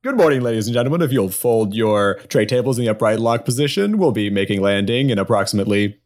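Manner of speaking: airline captain voice over PA; quick, chirpy in-flight announcement; pilot announcement. Acted. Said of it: "he grabs the old P A system".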